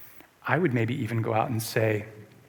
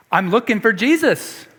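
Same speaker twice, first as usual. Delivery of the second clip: Mary searching; 8 semitones higher, 7 dB louder than usual. Acted. Preacher voices Mary at tomb.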